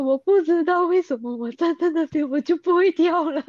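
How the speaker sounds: real tears while saying it; crying. Real, not acted. Diver telling her coach she can't jump, crying. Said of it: "我就在那边哭了".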